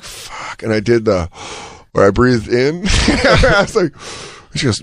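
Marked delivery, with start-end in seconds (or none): 0.0-0.6 breathless whispered fuck; under the breath, caught out; muttered fuck under the breath; whispered curse. Retold or imitated.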